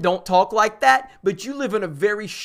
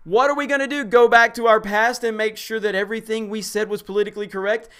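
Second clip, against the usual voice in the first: mocking read-out; 3 semitones higher, faster than usual. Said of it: "I'm gonna read this line one more time".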